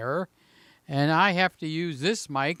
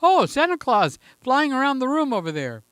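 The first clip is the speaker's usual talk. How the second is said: imagined onlookers; 6 semitones higher, 4 dB louder, faster than usual. Retold or imitated. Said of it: "They'll think".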